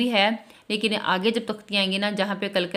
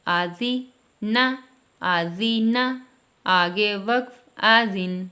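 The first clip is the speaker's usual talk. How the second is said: spelling drill; much slower than usual. Shown as a demonstration. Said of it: "اسی طرح آگے".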